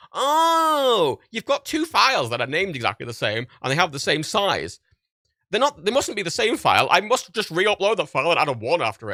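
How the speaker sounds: high, bright fake-helpful sync app, twice as loud at the start; mock software voice. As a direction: play the app as cheerfully clueless. Software voiced as dim assistant.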